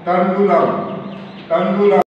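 clear, loud recitation of यवः for pupils to repeat; Sanskrit recitation. Shown as a demonstration. Teacher reciting Sanskrit words for pupils to repeat. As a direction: chant यवः crisply, stressing the final visarga. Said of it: "आइए".

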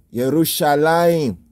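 "Yerushalayim" opening YEH, ending in "layim"; "Yerushalayim" with the final vowel gliding; corrected form Yerushalayim. Shown as a demonstration. Repeats the corrected pronunciation.

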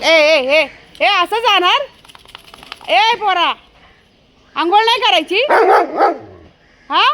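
real scolding, pitch jumping up; scolding call. Real, not acted. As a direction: call the dog back sharply. Calling back dog escaping bath.

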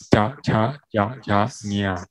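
slowed 加加加加呀, syllables apart; slow syllable demo. Shown as a demonstration. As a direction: model 加加加加呀 slowly for learners. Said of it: "在同样的地方发音".

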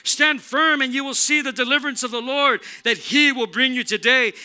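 loud, high heroic proclamation; mock hero. Moses rallies the people at the sea, booming mock-heroic. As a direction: boom it out like a would-be hero. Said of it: "trying to be a hero".

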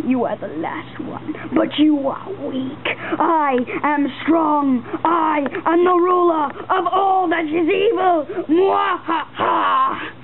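slow, gloating evil ruler; sneering panto villain. Acted. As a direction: boast like a stage villain. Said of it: "in an evil way".

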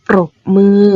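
ปรบมือ with the r sounded after the p; clear r cluster. Shown as a demonstration. Teacher modelling a true cluster for pupils, r clearly sounded. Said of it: "เราต้องอ่านออกเสียงตัวรอเรือ".

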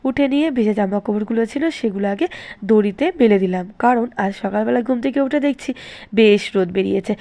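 talking with a toothbrush in mouth; while brushing teeth. Real, not acted. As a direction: speak around the toothbrush. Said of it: "তো এখন আমি brush করছি". (দাঁত মাজতে মাজতে কথা বলা)

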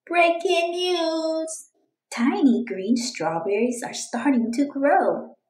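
slow, high announcer call; playful newsreader headline; mock news anchor. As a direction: announce it like big breaking news.

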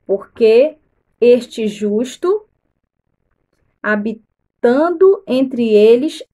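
slow, deliberate Bible reading; measured read-aloud with weighted words; scripture reading. Acted. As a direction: read the verse out solemnly, phrase by phrase.

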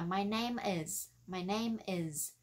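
slow "my name is" with a voiced z; buzzed Z ending. Shown as a demonstration. Teacher drilling the phrase, slow with buzzed "is". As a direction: let "is" vibrate at the end. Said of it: "nhớ là phải rung lên".

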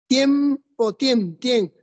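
"tiem" as one syllable, i gliding into e; vowels pronounced together. Shown as a demonstration. Teacher showing students a diphthong, "tiem" said together in one syllable. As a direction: repeat "tiem" as a single beat, tyem. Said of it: "se pronuncia junto".

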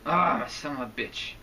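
slow, exasperated curse; fed up with a misbehaving tablet; getting mad. Real, not acted. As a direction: let out a drawn-out, irritated groan of a curse. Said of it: "Sorry, I'm getting mad".

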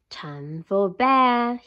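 very slow, drawn-out sleepy bear. Acted. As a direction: stretch it like a yawning bear.

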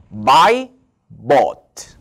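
teacher reading verb forms. Shown as a demonstration. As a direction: contrast "Buy" and "bought" clearly. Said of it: "한번 읽어볼게요".

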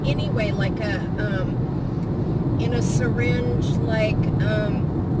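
talking around a mouthful of peanuts; chewing while talking. Real, not acted. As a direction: mouth full, chewing mid-sentence. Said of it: "I'm eating peanuts".

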